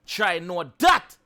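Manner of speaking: drawn-out Try know that, rising on that; slow, pointed Try know that; slow emphatic. Real, not acted. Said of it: "repeating with emphasis".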